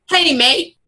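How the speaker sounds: put-on British accent slipping towards Australian; shaky attempt at a British accent. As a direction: try a matey British greeting. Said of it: "Oh, I need an accent".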